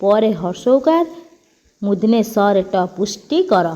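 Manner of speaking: slow spelling out. Shown as a demonstration. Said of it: "ପୁଷ୍ଟିକର କ'ଣ ଲେଖା ହବ?".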